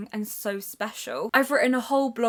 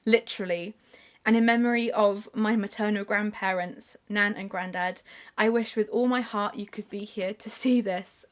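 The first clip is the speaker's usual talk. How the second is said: reading aloud. Real, not acted. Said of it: "the dedication in the Paper and Heart Society goes like this".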